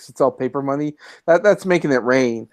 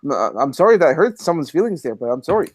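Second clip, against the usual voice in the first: put-on over-apologetic Canadian accent; hammed-up Canadian. Apologizing to friends for hurt feelings, hammed-up Canadian accent. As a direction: play a mildly offended, very polite Canadian. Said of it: "Too much Canadian".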